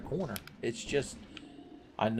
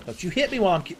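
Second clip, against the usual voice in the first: voicing the enemy; 8 semitones higher, 5 dB louder, faster than usual. Enemy voiced, pitched up.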